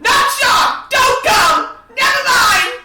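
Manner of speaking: high, shouted pleas; panicked protest. Acted. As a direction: cry out to ward it off. Player reacts in panic to villain.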